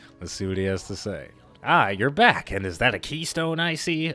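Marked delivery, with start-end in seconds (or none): 1.6-4.1 goofy, silly, high put-on character voice. Reading a character's greeting after bringing the keystone back, in a silly character voice. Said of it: "I hate doing silly voices".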